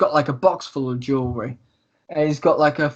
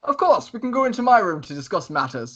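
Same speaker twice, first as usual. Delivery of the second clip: high-pitched opening, settling as it goes; lightly theatrical thief being indiscreet; Lucius, loud agreement; 5 semitones higher than usual. Acted. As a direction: agree breezily, starting high. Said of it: "He's, he is being quite loud".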